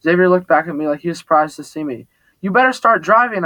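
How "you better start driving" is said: yelling. A narrator's reading. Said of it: "I yelled".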